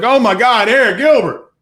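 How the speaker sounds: imitating fans going wild; mock gasp. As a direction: play the sudden fan, gushing. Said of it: "and everybody's like".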